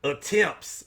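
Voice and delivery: put-on slow, drawn-out old school Georgia accent. Bragging about his looks to viewers in an old school Georgia accent. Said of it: "Why am I speaking like an old school, uh, G-, Georgia?".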